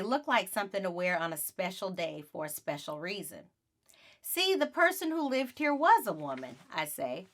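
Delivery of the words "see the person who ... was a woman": high, pointed I-told-you-so; girl triumphantly proving her brother wrong. Acted. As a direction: prove him wrong, a bit smug.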